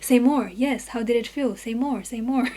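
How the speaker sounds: flat mechanical prompting; robotic voice. Retold or imitated. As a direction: mimic a robot asking questions. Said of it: "very robotic".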